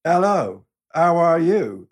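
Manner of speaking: English with a hammed-up French accent; a French-crooner-meets-Sellers French accent; mock French accent. English tourist greets in a mock French accent. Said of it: "I speak English with a French accent".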